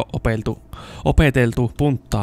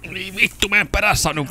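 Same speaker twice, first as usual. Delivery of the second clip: high, agitated voice; alarmed; 8 semitones higher than usual. Real, not acted. Player telling viewers the guard is chasing, high alarmed voice. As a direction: keep the pitch up in a nervous rush.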